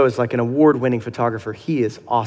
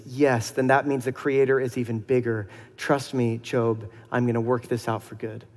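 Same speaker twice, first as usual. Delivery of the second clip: soft, tender reassurance, mostly softer; loving God; 3 dB quieter than usual. Acted. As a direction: gently comfort a grieving friend. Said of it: "this sort of lovingly".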